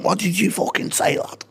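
sharp high challenge, squaring up; aggressive heckler. Retold or imitated. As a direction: bark it like a lad ready to fight.

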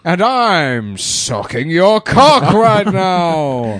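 high, loud, slow sultry voice; phone sex voice. Pretend. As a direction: seductive drawn-out tease. Phone sex line bit.

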